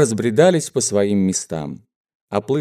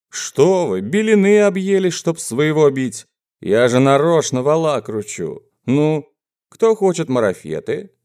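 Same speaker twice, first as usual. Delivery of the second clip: high-pitched, teasing excitement; strained merriment; 6 semitones higher than usual. Acted. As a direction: cry out as if it were all a joke. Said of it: "с напряжённым, загадочным весельем крикнул он". (напряжённо-весёлый высокий выкрик)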